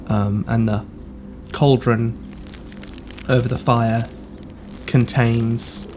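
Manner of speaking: measured narration with long pauses; game master's scene setting. Acted. Game master describing a dream to a player, measured narration. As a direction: unfold the vision piece by piece.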